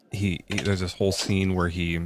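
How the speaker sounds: talking through a coffee burp. Real, not acted. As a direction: burp caught mid-sentence. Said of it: "I'm burping coffee".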